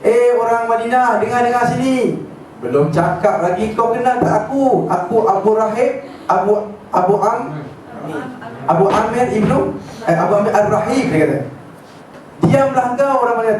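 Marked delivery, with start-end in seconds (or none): 0.0-11.1 lightly voiced, higher, slow proclamation to the crowd; pompous announcement. Abu Amir announcing himself to the people of Madinah, slow higher proclamation. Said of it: "dia buat announcement". 12.5-13.6 retold angry retort. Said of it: "Semua maki hangun dia".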